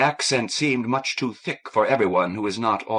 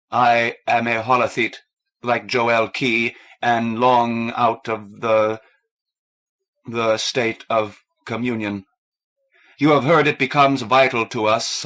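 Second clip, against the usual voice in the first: slow heavy; 2 semitones higher, 5 dB louder than usual. A narrator's reading.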